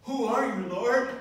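high, loud startled cry; terrified Saul. Acted. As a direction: cry out in alarm to the Lord. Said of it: "Saul's like".

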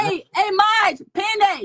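calling out. Real, not acted. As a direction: call out to Marge to pin it. Calling to the chat moderator to pin.

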